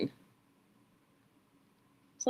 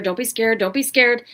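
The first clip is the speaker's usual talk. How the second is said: anxious self-talk; 3 semitones higher, 5 dB louder than usual. Retold or imitated. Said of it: "instead of telling yourself".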